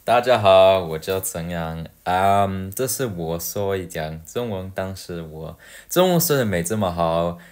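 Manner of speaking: her careful learner's Mandarin voice; Chinese voice. Shown as a demonstration. Showing viewers her Chinese voice while apologizing, hesitant learner Mandarin. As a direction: speak Mandarin a bit hesitantly, like a self-conscious learner. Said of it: "you get to hear my Chinese voice".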